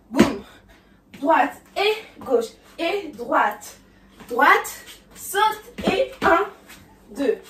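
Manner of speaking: loud counts with called moves; dance teacher counting. Acted. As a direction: call the steps over the beat. Counting the choreography aloud. (compter la chorégraphie à voix forte)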